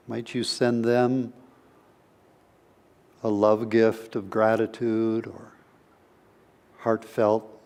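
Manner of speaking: unhurried meditation guidance with long pauses; guided meditation. Real, not acted. Teacher opening a session with a brief meditation, guided meditation voice. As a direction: gently lead listeners inward, leaving space between phrases.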